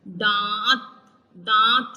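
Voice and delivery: दांत with nasal आ, no full n; nasalized vowel. Shown as a demonstration. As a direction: say दांत through the nose. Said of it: "इसको पढ़ेंगे नून गुन्ना".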